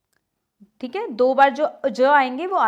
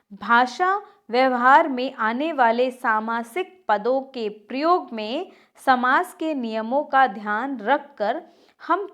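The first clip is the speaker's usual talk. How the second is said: measured textbook reading; reading aloud. Acted. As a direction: read the rule out phrase by phrase. Reads the textbook rule aloud.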